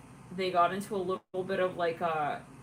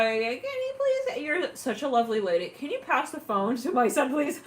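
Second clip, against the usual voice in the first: higher, mock-polite plea; pleading parent; 4 semitones higher, 3 dB louder than usual. Parent begging the stewardess to pass the phone, pleading.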